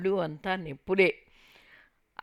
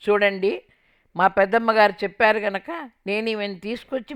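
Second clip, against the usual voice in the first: loud, dismissive brush-off; brusque man snapping at the family; curt and brusque; 5 dB louder than usual. Retold or imitated. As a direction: wash your hands of her, loudly. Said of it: "విసురుగా వెళ్ళిపోయాడు".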